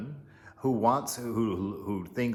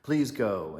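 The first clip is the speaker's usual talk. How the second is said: pleading Sita; 3 semitones higher than usual. Retold or imitated. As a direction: coax him, a mild plea. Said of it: "And she says".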